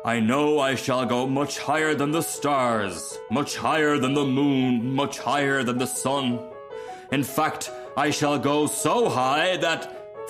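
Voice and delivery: slow, emphatic, building grandeur; mounting boast. Acted. Rocket about to launch, slow swelling boast. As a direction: stretch each boast further.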